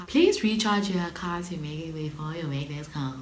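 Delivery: laughing imitation of an automated phone voice; mock recorded message. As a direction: play the operator tape, half laughing.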